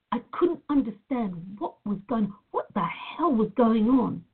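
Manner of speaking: fighting back real tears as the words come; choked up. Real, not acted. Recalling losing her livelihood, choking up. Recalling painful job loss.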